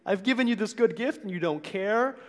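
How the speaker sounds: acted exasperation, pitched high; mock-hurt complaint of an unthanked giver; frustrated. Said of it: "It's frustrating".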